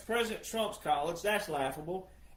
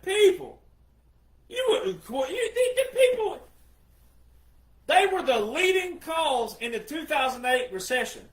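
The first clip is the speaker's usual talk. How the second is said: exasperated shout; 6 semitones higher, 5 dB louder than usual. Retold or imitated. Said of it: "I'm like".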